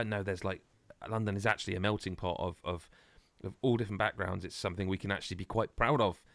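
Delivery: mock a sincere diversity statement, lightly; lightly imitating a well-meaning spokesperson; earnest PR voice. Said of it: "They also went".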